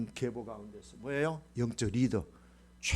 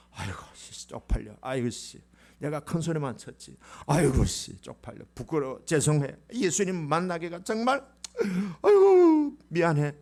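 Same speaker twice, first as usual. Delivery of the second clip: Peter's embarrassed grumble. Acted. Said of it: "베드로도".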